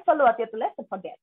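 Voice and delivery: connected Swedish-accented phrase, words run together. Shown as a demonstration. Teacher showing how Swedes say sorry, connected Swedish accent. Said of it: "যদি আপনি অ্যাকসেন্টে বলেন".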